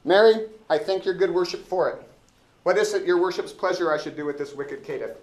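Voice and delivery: eager, self-important officer complaining to the judge; Elbow the constable. Acted. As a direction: play the pompous dim-witted constable, up in pitch and loud. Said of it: "I wanna be elbow".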